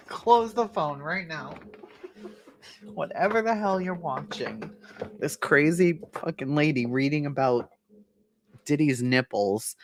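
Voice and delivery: a hint of an irritated husband; mock husband. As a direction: play the fed-up husband. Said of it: "Your husband must be like".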